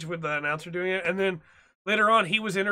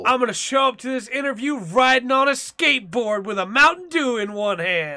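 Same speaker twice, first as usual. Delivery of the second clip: put-on young hip stereotype; 4 semitones higher, 5 dB louder than usual. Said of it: "you know the stereotype of".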